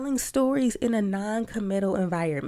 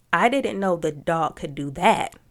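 I said loud and clear, the sentence ending in a rise; stress on I; 6 dB louder than usual. Shown as a demonstration. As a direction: lean on I, then rise at the end. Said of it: "So if the sentence is".

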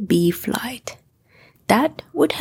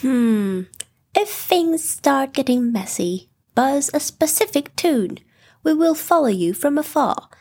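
higher, brisk Rabbit giving advice; a clever rabbit laying out the plan; 4 semitones higher than usual. Acted.

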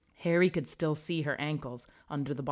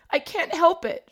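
high, loud wailing sob; wailing ghost; 14 semitones higher, 10 dB louder than usual. A narrator's reading. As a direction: wail it out like a miserable ghost. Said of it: "she wailed".

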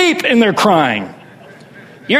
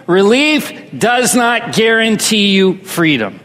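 congregation repeats; slower than usual. Shown as a demonstration. Congregation echoing the preacher's key line. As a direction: say it back together, full voice. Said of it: "Say that with me".

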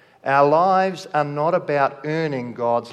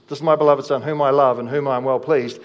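declared louder, falling on each phrase; louder proclamation; 5 dB louder, faster than usual. Shown as a demonstration. Preacher proclaiming God's words to the congregation, louder. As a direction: proclaim it so the hall hears. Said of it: "the same voice that speaks over Jesus".

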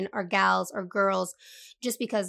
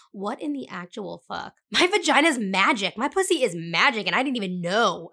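excited; 5 dB louder than usual. Retold or imitated. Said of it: "I was like".

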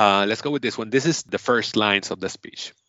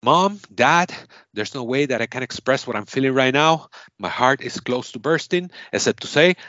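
raised pitch, acted swell of feeling; emotional acceptance speech; 4 semitones higher than usual. Game host acting a winner thanking Mom and Dad, mildly overcome. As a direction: build toward a triumphant outburst.

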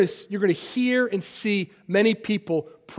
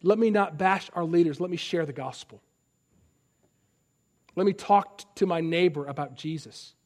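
quiet inner resolve; 2 semitones lower, 6 dB quieter than usual. Shown as a demonstration.

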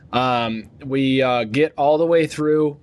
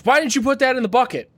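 higher, pushy mock questioning; a raised, whiny airport officer; mock agent pitch; 10 semitones higher, faster than usual. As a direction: ham up the nagging officer. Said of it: "now he's like".

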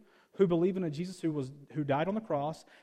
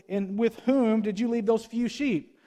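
mock angry brother; 5 semitones higher, 5 dB louder, slower than usual. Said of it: "He burned with anger at him".

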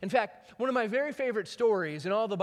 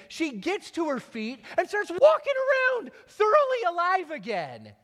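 high, building excited narration, growing louder; 9 semitones higher, 5 dB louder than usual. A narrator's reading. Preacher telling the congregation the girl rises, excited. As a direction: tell the miracle with mounting joy.

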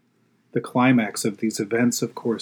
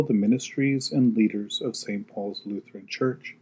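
prayer. Acted. Leads the prayers.

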